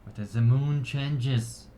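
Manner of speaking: measured ceremonial address to a gathering; solemn, projected speech of thanks; elf orator. Acted. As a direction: proclaim it to your people with pauses. Elf's ceremonial speech continues.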